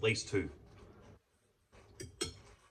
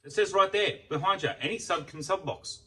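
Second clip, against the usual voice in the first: higher, insistent correction; indignant retort; 6 semitones higher than usual. Retold or imitated. Vlogger retelling arguing with the Subway clerk, indignant. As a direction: push back on the clerk, exasperated. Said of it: "I turn around and said".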